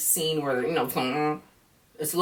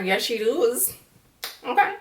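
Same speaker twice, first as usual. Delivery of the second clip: a very high, louder "Okay?"; high sassy agreement; 8 semitones higher, 3 dB louder than usual. Retold or imitated. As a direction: squeal your agreement. Her mock reply to Serena.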